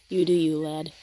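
lad said in a light American accent, vowels flattened. Shown as a demonstration. Teasing her teammate, a light American accent. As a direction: toss off lad like an American would. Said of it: "That was lad with an American accent".

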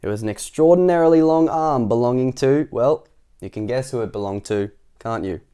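loud, animated reveal; story narration. A narrator's reading. Narrator reveals whose arm it is, animated storytelling. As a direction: announce it with relish. Reads the picture book aloud.

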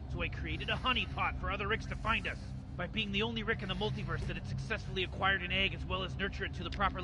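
lightly voiced cynical mad scientist, smug and rambling; Rick impression. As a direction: play the bored genius grandpa explaining his scheme. Gamer voicing Rick throughout.

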